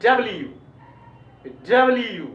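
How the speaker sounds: डब्ल्यू with a light "li-yu" ending; correct letter name. Shown as a demonstration. Teacher models the letter W, careful "dub-li-yu" for डब्ल्यू. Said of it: "इसको बोलना चाहिए".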